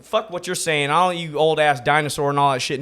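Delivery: lightly acted dismissive young comic; mock cocky comic. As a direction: imitate a know-it-all brushing off elders. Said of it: "A younger comic could be like".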